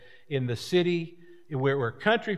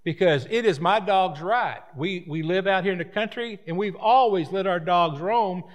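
country dog owner; 4 semitones higher than usual. Retold or imitated. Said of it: "The, the country person was saying".

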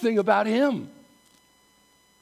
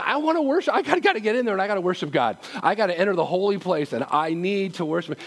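eager psalmist; faster than usual. Retold or imitated. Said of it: "that's what he's saying".

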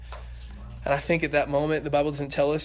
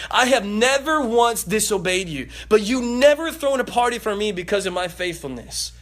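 mild angry son; 4 semitones higher, 5 dB louder than usual. Acted. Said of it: "getting in his father's face".

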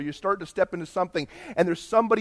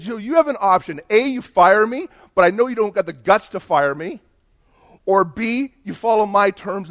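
acted ultimatum; 2 semitones higher, 6 dB louder than usual. Acted ultimatum to his boss.

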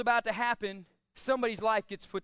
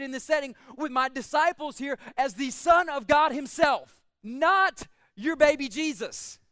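emphatic, driving pulpit delivery; preaching; 3 semitones higher than usual. Acted. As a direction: preach it with conviction, landing the key words. Preaches with raised force.

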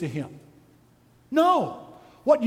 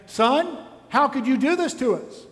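pleading mother, higher pitch; lightly voiced mother appealing to her son; reproachful mother; 5 semitones higher than usual. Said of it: "His mother standing there and saying".

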